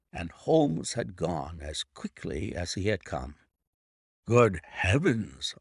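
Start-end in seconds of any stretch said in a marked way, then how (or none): 4.3-5.6 slow, startled exclamation with a lift; startled cry. Acted. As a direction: gasp it out in shock. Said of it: "I cried".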